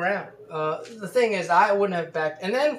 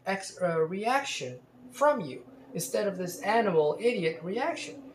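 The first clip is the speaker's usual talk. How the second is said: indignant demand; 4 semitones higher than usual. Retold or imitated. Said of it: "as if to say".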